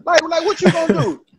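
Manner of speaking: high, defiant retold challenge.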